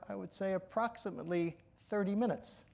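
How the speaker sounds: ordinary talk, nothing marked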